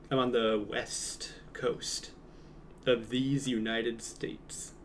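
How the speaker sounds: slow hushed whisper, like a secret; slow, breathy, mock-solemn announcement. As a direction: whisper it slowly as if it were grand news. Grand statement of own location.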